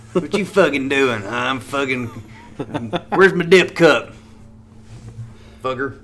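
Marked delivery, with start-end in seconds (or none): 0.1-4.1 hammed-up Alabama redneck drawl. Showing how rednecks curse, Alabama redneck voice. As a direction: put on a redneck Alabama accent. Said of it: "like a Alabama redneck".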